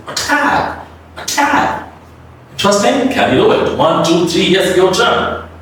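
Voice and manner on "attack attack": attack with the first A relaxed, whispered. Shown as a demonstration. Teacher showing a relaxed first vowel, whispered. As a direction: breathe it out softly, relaxed. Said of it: "like this".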